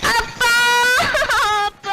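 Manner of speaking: calling out. Acted. Daughter calling father.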